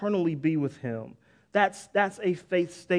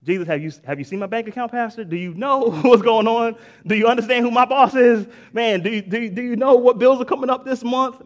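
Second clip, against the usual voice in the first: louder, rising indignant protest at the pastor; hammed-up disbelief, getting louder; mock exasperated complaint; 2 semitones higher, 6 dB louder than usual. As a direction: play the doubter waving his bills at the pastor. Mock doubting believer complaining.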